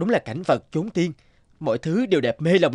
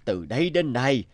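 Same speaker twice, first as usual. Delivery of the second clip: lightly voiced old villager; 3 semitones lower than usual. Old villager answers Từ Thức.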